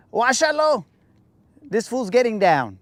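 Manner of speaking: Guáchalo jumping way up high, cheering; delighted approval of a great dancer; impressed hype. Retold or imitated. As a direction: shout it out like the dancer just killed it. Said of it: "they could also just say".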